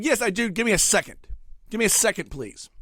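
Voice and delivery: irritated. Retold or imitated. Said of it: "So you get more irritated".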